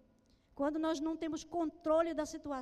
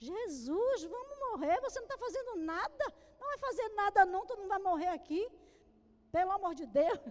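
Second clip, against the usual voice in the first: loud, higher, fast panicked shouting; mock desperate yell; 4 semitones higher, 6 dB louder than usual. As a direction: howl for help as the boat sinks. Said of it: "Eles devem ter gritado mesmo".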